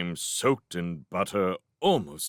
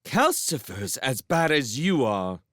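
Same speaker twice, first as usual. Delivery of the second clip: higher, indignant accusation; passionate; 4 semitones higher than usual. A narrator's reading. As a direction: hurl the blame with feeling. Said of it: "Sophie said passionately".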